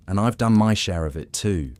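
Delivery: lightly voiced pirate, grim confession; a hint of a remorseful sea dog; grizzled old pirate. Old pirate confesses his share, lightly voiced and grim.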